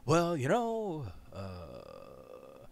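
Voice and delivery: slow, drawn-out mock Obama; lightly voiced Obama musing; Obama impression. Mimicking Obama's way of talking, slow. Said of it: "It sounds like an accent".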